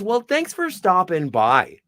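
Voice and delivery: slow, mock-polite send-off; lightly imitated pointed courtesy; Minnesota Nice. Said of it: "best bits of Minnesota Nice".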